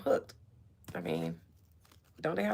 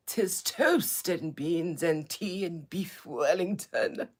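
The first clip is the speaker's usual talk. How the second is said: mock ancient royal voice. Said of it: "talk like this in such an ancient voice".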